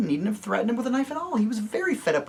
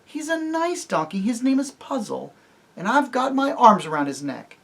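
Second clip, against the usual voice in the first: much higher desperate plea; frantic pleading; 12 semitones higher, 3 dB louder than usual. Acted. Jill begs Tirian to spare the donkey, high and frantic. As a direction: beg him to spare it.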